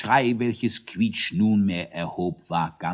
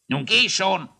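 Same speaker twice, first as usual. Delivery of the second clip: raised, mildly impatient grumble; grumbled dismissal; 11 semitones higher than usual. A narrator's reading. Thaddäus sends the hare off, mildly grumbling. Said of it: "brummte Thaddäus".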